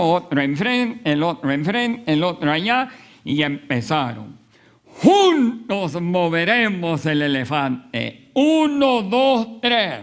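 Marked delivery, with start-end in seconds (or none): 5.0-10.0 grito de arrastre a coro. Retold or imitated. Aldeanos jalando al elefante juntos.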